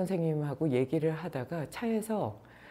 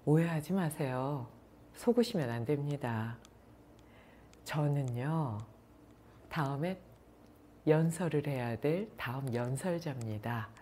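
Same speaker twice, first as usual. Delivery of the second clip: cool and curt; 4 dB quieter than usual. Retold or imitated. Last listener setting the grateful politician straight, mildly cold. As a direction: coolly correct them with long pauses, dropping quieter. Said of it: "냉랭하게 한마디 했대요".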